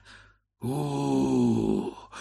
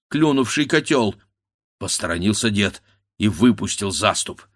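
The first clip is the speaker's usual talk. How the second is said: ordinary delivery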